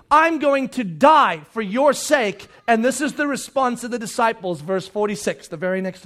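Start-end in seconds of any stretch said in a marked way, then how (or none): 0.1-2.5 slow, weighty, each word laid down; Jesus's words said slow and grave; solemn slow quote. Shown as a demonstration. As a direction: let the words sink in slowly. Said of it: "listen carefully".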